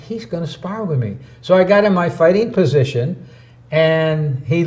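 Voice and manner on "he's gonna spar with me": quiet thought. Retold or imitated. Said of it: "I thought".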